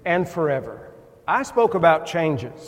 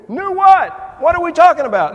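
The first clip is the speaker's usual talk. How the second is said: much higher and louder, astonished; a flabbergasted churchgoer shouting back; baffled outburst; 12 semitones higher, 10 dB louder than usual. Retold or imitated. Baffled congregant exclaims.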